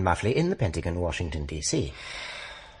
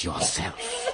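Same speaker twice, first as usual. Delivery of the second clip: laughing; 7 dB quieter than usual. Acted. Laughing warning to colonel.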